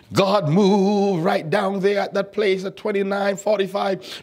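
lightly hammed-up church prayer on a sustained tone; mock intercessory prayer. Preacher mimicking someone praying for Tamika's unknown request, mock intercession. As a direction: imitate someone pleading to God on guesswork. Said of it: "guess your prayer request and say".

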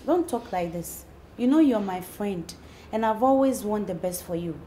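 calm your friend with quiet sincerity; reassuring. Acted. Friend saying she wants the best for her, reassuring.

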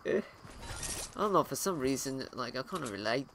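put-on a lightly done Australian accent for the new guy character; casual Australian accent chatting to viewers. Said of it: "I don't know why I've been given, uh, an Australian accent".

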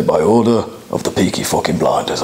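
low, menacing gangster line; intimidating demo. Shown as a demonstration. Director showing Beckham the intimidating line, low and menacing. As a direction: growl it out to scare them. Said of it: "in the most intimidating voice you can do".

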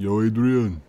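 drawn-out movie boxer call; mock Italian-American palooka shout; Rocky. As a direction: imitate the boxer's famous holler. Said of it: "Sounded kinda like Rocky".

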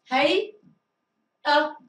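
هيئة stretched very slowly, syllable by syllable; slow model reading. Shown as a demonstration. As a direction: draw out هيئة slowly for the class. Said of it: "teacher models the word slowly".

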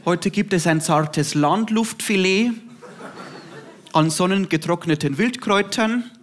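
a hint of a cross old granny putting on posh German; grandma, annoyed, addressing the vegan girl formally; grumpy grandma in High German. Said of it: "sagt sie es auf Hochdeutsch".

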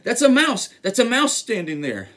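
loud, high panicked elephant; hammed-up alarm at a mouse; frightened shouting. A narrator's reading. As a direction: plead in mock terror. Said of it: "shouted the elephant".

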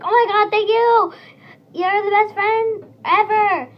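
loud, high squeal of thanks; thrilled, gushing over the best friend ever; overjoyed gushing. Retold or imitated. Friend hearing he will get Fiesta Dog, squealing with joy. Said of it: "And he was like".

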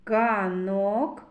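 "Ганок" with a long о, rising at the end; vowel О drawn out. Shown as a demonstration. Teacher showing children the vowel О, held long in "Ганок". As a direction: stretch the o in "Ганок". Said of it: "О голосний".

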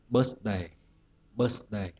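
"Birthday" with the stress on "Birth"; first-syllable stress. Shown as a demonstration. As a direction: lean on "Birth", let "day" fall. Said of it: "trọng âm rơi bấm tiết thứ nhất".

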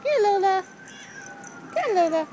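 loud, high call after a cat running off. Real, not acted. Owner calling the cat home, loud and high. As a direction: call her back across the yard.

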